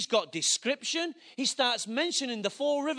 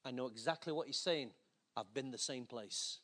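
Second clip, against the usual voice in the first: quiet confession; 10 semitones lower, 13 dB quieter than usual. Retold or imitated. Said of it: "the boy on the corner says".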